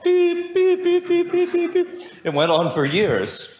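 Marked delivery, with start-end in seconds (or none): 0.0-1.9 rapid high-pitched beeping tones; high electronic beeps. Retold or imitated. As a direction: mimic a ringing phone line. Imitating phone ringing tone.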